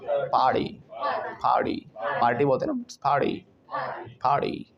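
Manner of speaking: "पार्टी" as "par-dee"; T as light D. Shown as a demonstration. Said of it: "टी में हल्का सा डी add हो जाता है".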